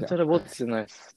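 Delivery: なんちゃらぼっち rushed out quickly; fast ぼっち denial. Shown as a demonstration. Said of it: "それ一人ぼっちじゃん".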